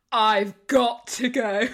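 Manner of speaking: slow, deliberate mock quote; retold reluctant exit. Retelling friend leaving a video call, slow mock delivery. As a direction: drag out each word of the quote. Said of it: "she was like".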